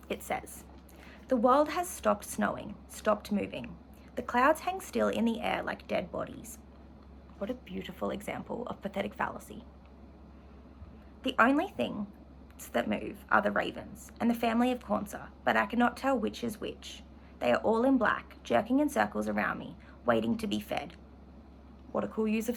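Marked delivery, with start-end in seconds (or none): 1.3-6.6 measured, expressive literary reading; steady novel reading to the class; reading aloud from the novel. Acted. Reads novel passage aloud. 11.2-20.9 measured, expressive literary reading; steady novel reading to the class; reading aloud from the novel. Acted. Reads novel passage aloud.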